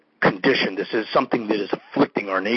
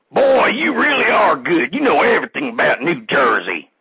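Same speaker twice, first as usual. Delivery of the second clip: impressed fake caller; 5 semitones higher than usual. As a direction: gush over the host like a starstruck caller. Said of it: "Okay, next caller".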